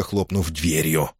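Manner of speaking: ordinary delivery, nothing marked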